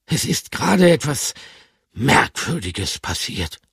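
a high hamster voice, slowing down; hesitant little hamster; lightly voiced hamster. Bertram tells his friends, high and hesitant.

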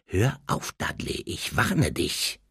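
low, soft, slow threat; hushed and menacing; quiet warning. A narrator's reading. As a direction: warn him quietly, slowing down. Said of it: "sagte Harry leise".

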